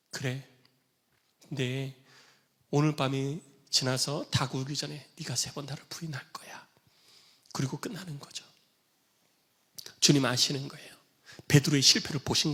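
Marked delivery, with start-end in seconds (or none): 0.1-6.7 soft whispered prophecy; quiet foretelling. Acted. Jesus softly telling Peter he will deny him, whispered. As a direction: whisper it gently, knowing.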